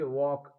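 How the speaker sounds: वॉक with no L before the K; silent L. Shown as a demonstration. Teacher giving learners an example, silent L in वॉक. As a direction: say वॉक, leaving the L unsounded. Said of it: "एल silent हो जाता है".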